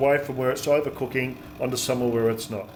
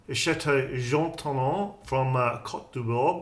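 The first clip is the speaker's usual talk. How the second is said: slow, careful attempt at French pronunciation; attempted French accent; slower than usual. Real, not acted. Home cook naming the wine for viewers, in an attempted French accent. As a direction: have a modest go at a French accent. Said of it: "Excuse the French, uh, accent there".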